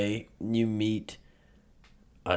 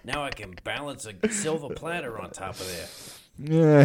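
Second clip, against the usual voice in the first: higher, put-on Jersey accent; old Jersey guy; 3 semitones higher than usual. Old man recounting head injury, hammed-up Jersey accent. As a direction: tell it as a mock Jersey old-timer. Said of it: "I talk like this now".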